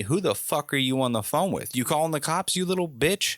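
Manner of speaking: mock a belligerent yell without much volume; retold mock yelling. Drunk neighbor accusing man on phone, mock yelling. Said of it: "he's yelling at me".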